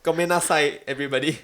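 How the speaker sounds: high, loud, laughing sorry; laughing apology. Real, not acted. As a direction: squeal out a giggly apology. Laughing fake apology to everyone.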